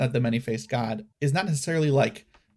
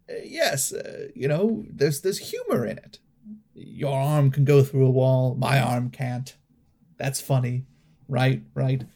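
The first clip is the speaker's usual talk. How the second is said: regal tone. Acted. Toffee addressing the party crowd, mildly regal. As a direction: address the crowd like minor royalty. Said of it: "in a regal tone".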